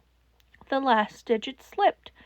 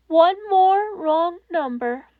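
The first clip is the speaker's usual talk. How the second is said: bitter; 6 semitones higher, 5 dB louder, slower than usual. Acted. All Might's bitter remark.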